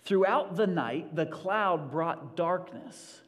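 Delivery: very slow, weighty Bible reading; scripture reading. Acted. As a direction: lay each word down solemnly. Reads scripture slowly.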